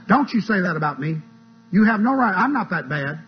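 hammed-up wounded objection; mock indignation. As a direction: protest as if wrongly accused. Imitates demon indignant at accusation.

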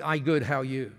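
slightly low, lightly copied Japanese-English phrasing; mirrored pidgin English. Retold or imitated. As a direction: echo her Japanese-style broken English a little. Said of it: "you speak like that".

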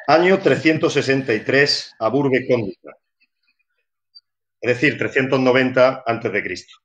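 measured storybook narration, unhurried in places; literary reading voice. Shown as a demonstration. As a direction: read it like a bedtime story for a child. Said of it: "voy a intentar poner una voz, eh, literaria".

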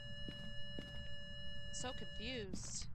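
very high, slow, put-on squeak; squeaky drawn-out voice. Streamer repeats her confusion in a very high slow squeak. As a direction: stretch it out in a tiny cartoon squeak.

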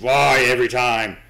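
slow, loud exasperated cry; exasperated yell. Real, not acted. Jumpscared streamer yelling slowly in frustration. Startled by monster again.

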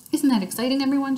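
high, gushing little show-off; gushing Lucille. A narrator's reading. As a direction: gush it out like a spoiled girl showing off. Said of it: "she asked".

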